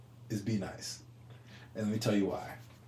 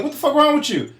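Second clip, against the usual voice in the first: retold yell; 12 semitones higher than usual. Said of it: "I was like".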